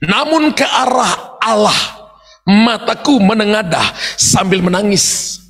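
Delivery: slow, crying-edged verse read out; slow weeping lament; tearful reading. Shown as a demonstration. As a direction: let the voice break as you lift eyes to God. Verse of weeping prayer, repeated.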